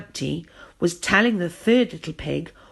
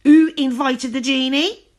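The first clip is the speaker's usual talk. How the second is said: grumbling; 7 semitones higher, 8 dB louder than usual. A narrator's reading. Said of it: "grumbled Rumpelstiltskin".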